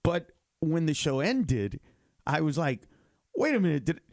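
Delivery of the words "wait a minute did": high, rising comic disbelief; mock-panicked outburst; incredulous self-questioning. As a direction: play up alarm at your own decision, pitch climbing. Acted shocked reaction to quitting.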